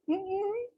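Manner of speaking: soft, high "mm-mm"; disapproving hum. Acted. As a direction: hum a mock reaction, mouth closed. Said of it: "you'd be like".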